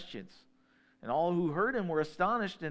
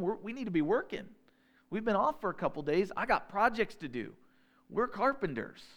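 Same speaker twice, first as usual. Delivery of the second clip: father's rant building higher and louder to the end; exasperated father; 3 semitones higher, 3 dB louder than usual. Retold or imitated. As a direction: huff like a busy carpenter dad. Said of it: "Joseph's going".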